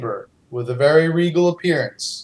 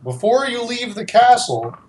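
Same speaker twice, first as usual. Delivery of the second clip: theme park host voice; 4 semitones higher than usual. Acted. Dwarf NPC theme park voice.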